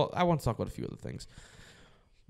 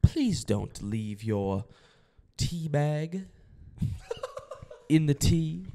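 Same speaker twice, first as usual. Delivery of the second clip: put-on British accent; 2 semitones higher than usual. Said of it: "I'm gonna try to do an accent here".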